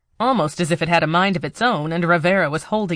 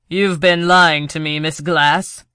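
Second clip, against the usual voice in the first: loud, cold accusation; angry accusation; 5 dB louder than usual. Acted. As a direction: hurl the charge at her. Villain confronts captive woman.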